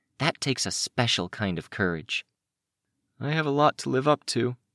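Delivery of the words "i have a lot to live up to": quiet, soft-spoken, much higher. Replying to soft-spoken praise about his courage, he answers, quiet. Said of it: "just as quiet".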